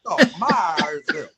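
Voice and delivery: imitating local Mississippi folk saying "Marsville"; local accent. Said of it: "like the people down there".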